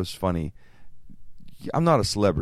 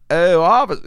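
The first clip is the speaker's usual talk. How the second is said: louder, higher coy plea to the officer; sweet-talking old lady; 5 semitones higher, 8 dB louder than usual. Retold or imitated. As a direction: charm the cop innocently. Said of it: "And I said".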